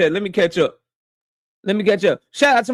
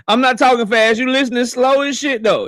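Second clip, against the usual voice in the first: laughing retort; 2 semitones higher than usual. Real, not acted. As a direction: tease them through a laugh. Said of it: "repeat take".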